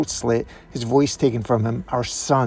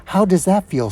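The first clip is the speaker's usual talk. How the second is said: higher-voiced grieving confrontation; bitter accusation; 4 semitones higher than usual. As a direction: press the accusation with rising emotion.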